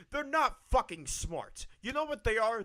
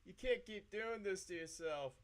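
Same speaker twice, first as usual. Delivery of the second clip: much softer, muttered to himself; quiet self-talk; 2 semitones lower, 11 dB quieter than usual. Real, not acted. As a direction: say it under your breath. Repeats line to himself.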